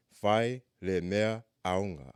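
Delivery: Fai le mea aonga spelled out slowly, each syllable clear; slow it right down so learners can follow; slow, careful demo. Shown as a demonstration. Teacher slowing down the phrase for students to repeat, slow and careful. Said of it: "I'm gonna try to say 'em slow".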